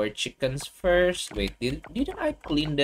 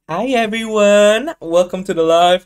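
high, loud, bouncy greeting; sing-song streamer welcome; exaggerated cartoon intonation; 7 semitones higher, 9 dB louder than usual.

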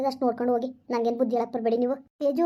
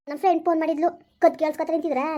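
angry retort; 3 semitones higher, 3 dB louder than usual. Acted. Girl snaps at sister-in-law.

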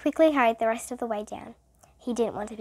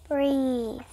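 whisper. A narrator's reading. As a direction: hush the word gently. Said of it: "said Kathy".

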